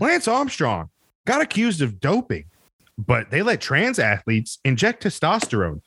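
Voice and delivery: lightly voiced indignant cable news rant; a touch of outraged pundit; mock Tucker Carlson. Podcaster spoofing a TV host for friends, mild mock outrage. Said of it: "I know what Tucker Carlson would do".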